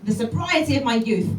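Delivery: brisk lively recitation of a poem; poem reading. Acted. Comedian reads Jenny Joseph poem to the audience: lively recitation. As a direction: read it out with relish.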